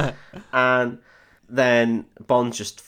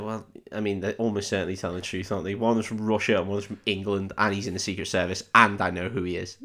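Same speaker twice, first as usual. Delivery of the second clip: reasonable guard; 4 semitones lower, 5 dB quieter, faster than usual. Retold or imitated. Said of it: "the guy's just like".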